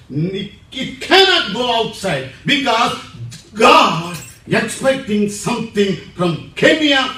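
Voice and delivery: loud, high exhortation; preaching at full force. Real, not acted. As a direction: drive it home to the crowd.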